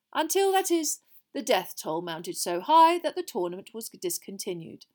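projected, animated headmaster's speech; Dumbledore addressing the hall. Acted. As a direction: explain it grandly to a full hall.

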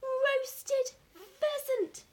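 loud, high, drawn-out proclamation; rapturous, stretched-out exclamation; exultant cry. A narrator's reading. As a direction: cry it to the whole countryside. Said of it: "he cried out".

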